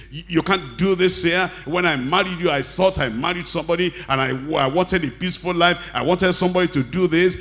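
bullying husband. Retold or imitated. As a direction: act out a shouting husband. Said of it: "shouting and bullying and saying".

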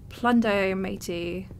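put-on lightly forced pirate accent; fake pirate accent. Player joking about pirate ways, half-hearted pirate accent. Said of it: "forcing a fake pirate accent".

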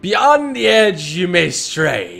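slow, grand pirate recital. Pretend. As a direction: chant it like an old sea dog. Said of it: "I have a good pirate voice".

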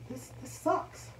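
breathy, slow, almost whispered; slow whispered complaint to herself; slow half-whispered quote. Retold or imitated. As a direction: let it out in a tired whisper. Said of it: "And it was like".

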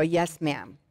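retold answer given with sober respect; very respectful. Woman answering her prophetic friend's pointed question, very respectful. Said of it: "very respectively".

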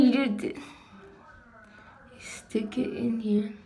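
talking while flossing teeth; fingers at the mouth. Real, not acted. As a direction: lips held by fingers. Seen 0: fingers hold floss at lips against braces while speaking.

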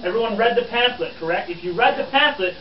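lively, emphatic quizmaster; schoolmasterly reporter. Acted. Reporter quizzing his good students on the pamphlet, schoolmasterly. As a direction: address the room like pupils facing a quiz.

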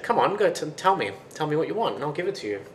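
eager coaxing. Acted. Young boy urges the giant to name his wish, eager coaxing. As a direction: coax it out of him.

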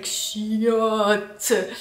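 "Chiotte" spat out with distaste; mock grossed-out "Chiotte"; disgusted chiotte. Shown as a demonstration. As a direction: say "Chiotte" like it's dirty. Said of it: "It's like".

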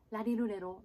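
ラリルレロ with everyday Japanese ラ行 as L; L sounds. Shown as a demonstration. Coach likening English L to Japanese, L-sound ラリルレロ. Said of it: "Lの発音ですね".

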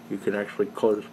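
words slurred around a cigar; talking with a cigar clamped in the mouth. Real, not acted. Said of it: "harder to talk with a cigar in your mouth".

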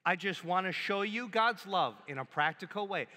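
steady, even recitation for the crowd to echo; call and response. Shown as a demonstration. Pastor leading the congregation in the phrase, even recitation. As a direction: lead the room in saying the phrase together. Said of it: "So say it with me".

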